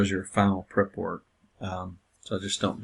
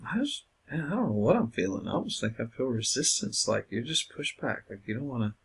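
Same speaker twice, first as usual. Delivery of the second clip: gentle counsellor; 5 semitones higher than usual. Shown as a demonstration. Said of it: "talk about it".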